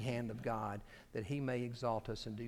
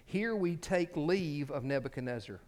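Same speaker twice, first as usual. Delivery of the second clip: emphatic oratorical reading; quotation read aloud; 2 semitones higher, 4 dB louder than usual. Acted. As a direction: read it out with relish, like grand prose.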